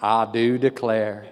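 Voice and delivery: slow, drawn-out American accent; best American accent. Shown as a demonstration. Preacher redoing it for the church, American accent. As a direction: put on a big American accent. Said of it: "I'll do it in my best American accent".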